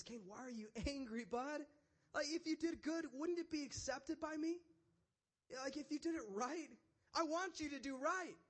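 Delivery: high-pitched, caring appeal; sympathizing God. Acted. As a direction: plead like a concerned friend reasoning with him. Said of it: "And he sympathizes".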